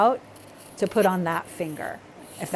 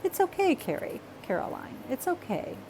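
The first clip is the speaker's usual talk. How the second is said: soothing herself quietly; calm yourself down, gently; reassuring herself softly; self-soothing; 8 semitones higher, 6 dB quieter than usual. Real, not acted. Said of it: "I'm telling myself that".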